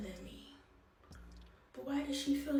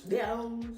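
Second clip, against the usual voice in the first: instrument-like sound; 6 dB louder than usual. Shown as a demonstration. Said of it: "That sound like an instrument".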